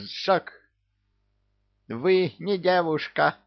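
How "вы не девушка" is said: howled high, louder and higher; howling. Acted. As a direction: wail it out like a wounded wolf. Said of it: "провыл он". (провыл)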